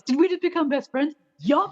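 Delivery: quoting Step Brothers. Retold or imitated. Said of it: "Like the scene from Step Brothers".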